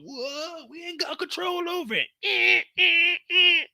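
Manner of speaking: high, shouted alarm; panicked crew. Retold or imitated. Crew in the falling helicopter, high panicked shout. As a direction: yell as the chopper spins out. Voicing crew losing control.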